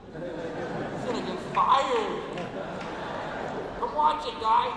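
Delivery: lightly mimicked secretary calling coworkers over; mock gleeful call. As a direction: summon the office to watch the fun. Secretary gathering an audience.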